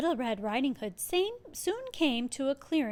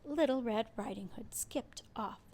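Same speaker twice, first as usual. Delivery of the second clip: whisper; 8 dB quieter than usual. A narrator's reading. Narrator whispers line end.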